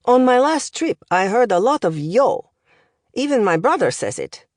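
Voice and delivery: lightly voiced accented professor, lively lilt; language professor. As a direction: deliver it like a pedantic foreign tutor.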